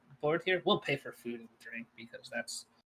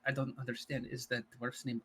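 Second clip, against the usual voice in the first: whisper; 2 semitones lower, 7 dB quieter than usual. Acted. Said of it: "I'll whisper again".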